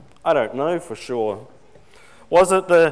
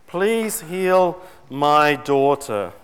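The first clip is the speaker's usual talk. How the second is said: pleading mother; 3 dB louder, much slower than usual. Retold or imitated. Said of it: "she calls out to him".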